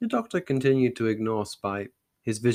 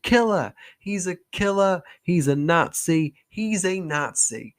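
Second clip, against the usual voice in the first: high shrill cries of accusation; high, loud outraged old woman; old lady crying out; 7 semitones higher, 4 dB louder than usual. Acted. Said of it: "and cried".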